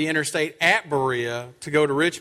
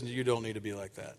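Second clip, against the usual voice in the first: mild scolding; 9 semitones lower, 12 dB quieter than usual. Retold or imitated. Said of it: "your wife next to you says".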